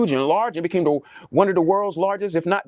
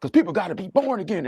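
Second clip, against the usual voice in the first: mock hyped preacher; 2 semitones higher than usual. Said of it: "I'm talking like that".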